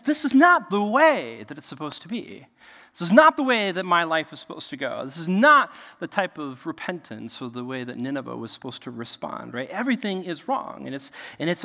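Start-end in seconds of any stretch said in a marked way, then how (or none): 0.0-9.5 Jonah's complaint. Retold or imitated. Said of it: "'Cause he says".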